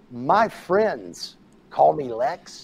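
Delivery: slow, low, deliberate Lex voice; cold put-down. Retold or imitated. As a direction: spell it out slowly, cold. Lex putting the fan down.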